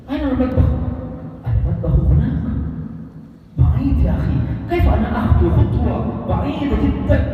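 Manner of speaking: Arabic with Arab feeling. Shown as a demonstration. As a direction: act out a lively Arab exchange with a laugh. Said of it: "pakai feeling orang Arab". (percakapan Arab yang hidup dan ekspresif)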